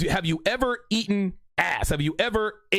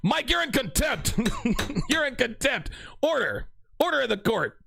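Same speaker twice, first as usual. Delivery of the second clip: a playful judge calling order, raised pitch; mock judge; 5 semitones higher than usual. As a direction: bang the gavel and scold the chat in jest. Mock judge scolding chat member.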